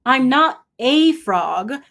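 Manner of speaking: slow, deliberate mild annoyance; a little annoyed. Acted. The prince correcting the fairy godmother, a little annoyed. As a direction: spell it out, mildly irritated. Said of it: "getting a little annoyed".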